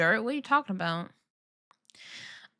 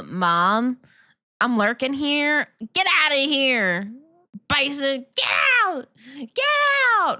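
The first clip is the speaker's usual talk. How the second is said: mock yell at mom; 2 semitones higher than usual. Kid yelling at mom, acted.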